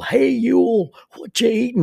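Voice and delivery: high, loud mock call into the woods; kid yelling. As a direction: holler it up at Ewell like a boy playing. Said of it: "Bobby Phillips would yell".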